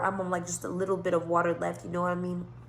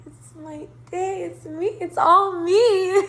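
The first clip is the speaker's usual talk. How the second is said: slow, higher, laughing it out; giggly glee; 9 semitones higher, 5 dB louder, slower than usual. Retold or imitated. To herself in the red Benz, laughing slowly. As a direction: savour it through a giggle. Gleeful reaction in car.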